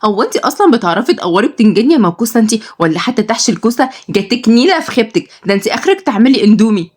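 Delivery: put-on girl berating her cousin over the food plan; irritated. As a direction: snap at her cousin, fast. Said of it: "واتكلمت بعصبية".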